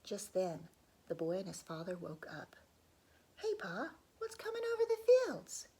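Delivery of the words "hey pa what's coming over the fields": put-on high, loud excited child's call; a young boy calling out to his dad; boy's voice. Boy calling to his father over the fields, high excited call.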